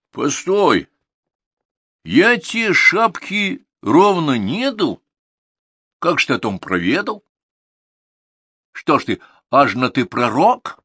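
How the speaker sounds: a hint of a flustered peasant lad; pleading Ivan. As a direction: Ivan insisting he has no feather.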